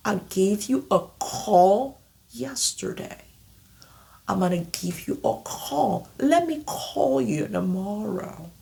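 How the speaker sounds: "call" said clearly in each; example sentences. Shown as a demonstration. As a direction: model English sentences. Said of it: "example sentences".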